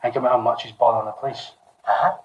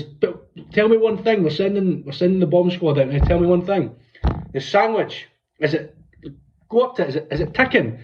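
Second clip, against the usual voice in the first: mock police voice; 5 semitones higher than usual. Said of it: "He goes".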